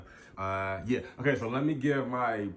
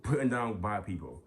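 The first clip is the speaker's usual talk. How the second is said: scolding; 4 dB louder than usual. Real, not acted. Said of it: "now I'm getting on y'all asses".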